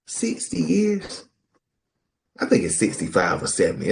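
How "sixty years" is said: amazed. Real, not acted. Amazed at long marriage.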